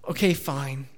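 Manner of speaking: subdued, sulky mock surrender; pouting. Husband in the wrong giving in to his wife, pouting. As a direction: give in with a pout, little force. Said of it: "and I pouted off on my own".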